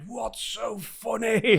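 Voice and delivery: slow mock-stern question through laughter; a hint of an angry teacher; teacher telling off. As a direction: scold while giggling.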